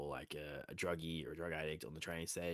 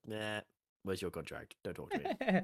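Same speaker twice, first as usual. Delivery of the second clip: dismissive brush-off. Pretend. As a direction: pretend diva shutting her down. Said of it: "so I was like".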